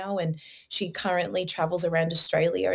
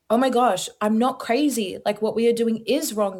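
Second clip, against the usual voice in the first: blurting it out as it finally clicks; excited realization; 3 semitones higher than usual. Retold or imitated. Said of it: "And I went".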